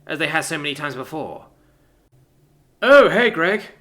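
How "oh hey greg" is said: put-on cheerful girl voice. Romelia greets from fence.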